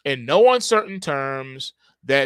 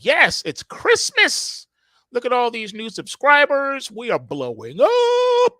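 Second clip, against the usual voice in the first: mock glee; 7 semitones higher, 4 dB louder than usual. Netflix gloating over new subscribers, hammed-up glee. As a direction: ham up a gleeful boast. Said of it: "So Netflix was like".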